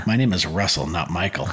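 lightly imitating a dead-serious athlete; deadpan. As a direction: say it dry, with no humor at all. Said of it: "he just deadpan looks at me".

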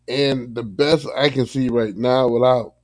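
slightly husky, catching throat; speaking through a throat tickle; frog in throat. Real, not acted. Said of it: "we got a little frog in my throat here".

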